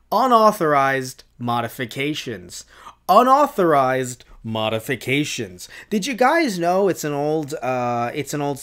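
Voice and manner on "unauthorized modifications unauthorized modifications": "Unauthorized modifications" dropped lower, each word set apart; emphatic repetition. Shown as a demonstration. YouTuber repeating a quote for emphasis, "Unauthorized modifications" said pointedly. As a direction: weigh out "Unauthorized modifications" with a pause between. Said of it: "When you say things over and over again, it's for emphasis".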